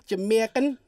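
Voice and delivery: brief mock Jamaican accent, rising like a question; lightly hammed-up Jamaican accent. Shown as a demonstration. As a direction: say it as a playful Jamaican. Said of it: "you wanna hear my Jamaican".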